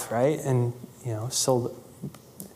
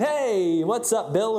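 casual phone greeting; 5 semitones higher, slower than usual. Retold or imitated. Mocking a casual call to publisher.

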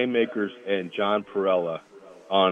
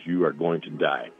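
quiet, low mock menace; low retold threat; 5 semitones lower, 4 dB quieter than usual. Lineman threatening the center who spat, low menace. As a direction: deliver a death threat low and soft. Teammate's threat acted out in story.

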